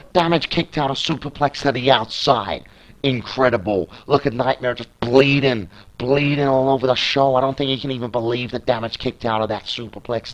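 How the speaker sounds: lebhafter Ringsprecher, der jede Aktion mitzählt; Play-by-Play-Kommentar. Acted. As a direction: kommentiere das Match live und treibend. Live wrestling play-by-play.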